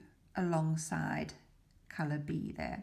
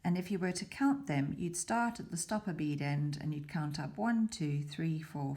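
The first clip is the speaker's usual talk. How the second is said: ordinary talk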